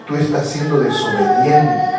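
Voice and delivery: low, soft acted scolding; gently voiced parent, low and quiet; quiet parental reproach. Acted parent correcting the child. (reproche de padre, bajo y suave)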